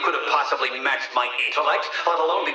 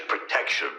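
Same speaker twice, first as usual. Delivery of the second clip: whispered echo; 4 dB quieter than usual. Acted. Echoed word whispered.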